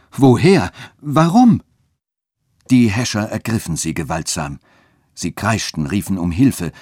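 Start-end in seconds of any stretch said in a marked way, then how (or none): 0.1-1.6 much higher, louder, slow shriek of terror; women shrieking at the accusation; horrified cry. A narrator's reading. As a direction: scream it in disbelief. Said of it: "schrien diese mit Entsetzen".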